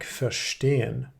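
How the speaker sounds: verSTEHEN, with ver kept light; verstehen, unstressed ver leading into a strong STE; stress on STEHEN. Shown as a demonstration. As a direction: lean on the stem stehen in verstehen. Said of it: "the ver is not stressed".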